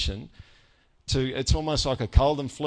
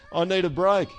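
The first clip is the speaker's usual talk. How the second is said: weary translation; 5 semitones higher, 4 dB louder than usual. Pretend. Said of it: "Which is".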